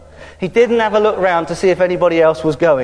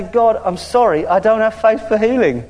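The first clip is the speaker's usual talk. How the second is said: honest prayer. Shown as a demonstration. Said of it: "the best thing to do is say".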